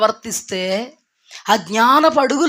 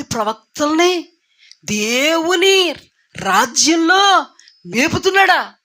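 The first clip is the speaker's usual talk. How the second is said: disgusted scoff. Acted. Jehoshaphat's imagined disgusted thought.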